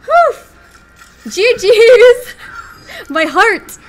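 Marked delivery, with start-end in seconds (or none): 0.0-0.3 high, loud breath of relief; relieved whew. Real, not acted. Streamer after a narrow win, relieved whew. 1.3-2.3 excited gg. Real, not acted. Congratulating opponent.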